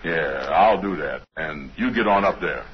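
low dialect voice, unhurried; held low voice. Shown as a demonstration. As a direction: keep the put-on voice down low. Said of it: "you hold that voice".

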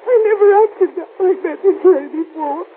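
tearful, catching on sobs; sobbing guilt over fiancé. Acted. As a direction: weep it out to mother. Daughter weeps over fiancé's death.

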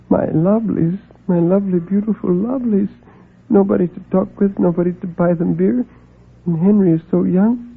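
high, pleading voice rising in distress; dying old man's lament. A narrator's reading. Dying Mergenswerker grieving over his lovelies, pleading. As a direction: mourn what will become of them.

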